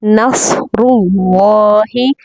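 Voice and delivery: नसरुल्लाहि with thick र and ल, slow; heavy on the र and the ल; नसरुल्लाहि said slow and full; heavy full letters. Shown as a demonstration. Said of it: "इन तीनों को पुर पढ़ने की कोशिश करें".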